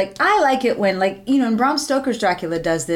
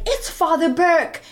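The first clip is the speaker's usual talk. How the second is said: mock nun voice; 6 semitones higher, slower than usual. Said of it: "she's like".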